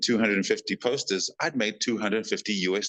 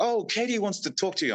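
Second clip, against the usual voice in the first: quick relay; 12 semitones higher, much faster than usual. Retold or imitated. Retold crew member's message.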